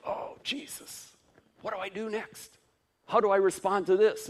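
high, rising panicky plea; mock panicked prayer. Flustered believer asking Jesus what to do next, high and panicky. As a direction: fret like a flustered disciple.

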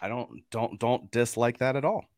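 hoarse from a sore throat. Real, not acted. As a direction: talk through a scratchy sore throat. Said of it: "I've had a sore throat".

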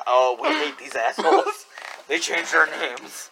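mock disguised witness; lightly faked altered voice; imitated distorted voice. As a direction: talk like an anonymous interviewee, half laughing. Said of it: "they have to distort their voice".

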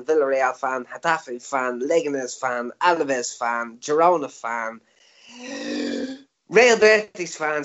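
rattling off a list, breath running out; fast list, getting short of breath; running out of air. Real, not acted. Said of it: "I'm running out of breath here".

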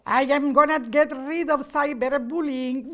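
lightly put-on Slovenian accent; a hint of a Slovenian accent. Mimicking the president's wife on cyberbullying, light Slovenian accent. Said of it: "Do I do a good Slovenian accent?".

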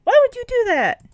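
squawky high duck voices scolding; high, nasal duckling disbelief; cartoon ducks. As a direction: play a shocked cartoon duck. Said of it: "they're like".

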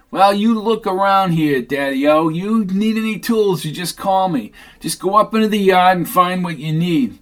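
lightly voiced friendly Sid; Sid's voice. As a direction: play him glad to be rid of Tucker. Sid waving Tucker into yard.

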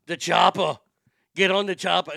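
loud Austrian-accented action hero; Arnold Schwarzenegger. Shown as a demonstration. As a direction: bark it like an Austrian muscleman. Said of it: "gets you into the Arnold voice".

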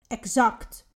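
"Exact" set apart and firmly emphasised; stress on Exact. Real, not acted. Coach pinning down what to manifest, stress on "Exact". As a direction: land firmly on the word "Exact". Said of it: "Met nadruk op exact".

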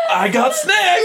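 high, loud shout of glee; excited kid shout. Retold or imitated. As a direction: yell it like a kid at a sleepover. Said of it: "it's like".

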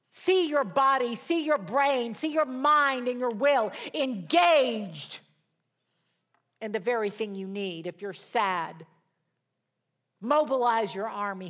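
loud, rising pulpit declarations; charged sermon proclamation; preaching. Real, not acted. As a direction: command it over the congregation with fervor.

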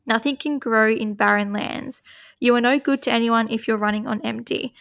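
measured oracle card reading; steady reading-aloud voice. Acted. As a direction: read the card out evenly.

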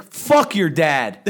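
slow retold snap. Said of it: "I was like".

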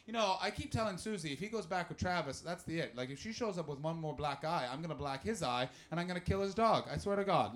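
lightly voiced gossiping woman; a hint of gabby women's chat; gabby middle-aged woman. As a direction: chatter on like an indignant neighbour. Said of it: "that gabby, middle-aged woman talk".

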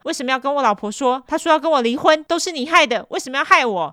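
voiced boss wailing; whining accuser. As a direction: blame her in a panic. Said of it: "变态说".

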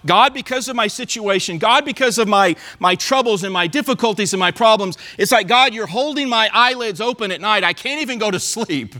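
mild pleading prayer to God; pleading psalmist. Retold or imitated. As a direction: lightly voice the weary psalmist begging for rest. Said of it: "He's saying, he's saying to God".

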